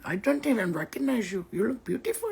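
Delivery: high, put-on Indian accent. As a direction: imitate someone gushing in an Indian accent. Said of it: "Indian accent".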